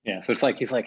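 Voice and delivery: ordinary delivery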